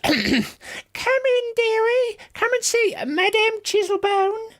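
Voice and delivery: put-on very high old fortune-teller voice; high, theatrical fortune-teller welcome; cackly old lady. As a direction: beckon them in like a piping old crone. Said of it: "a cackly old lady voice".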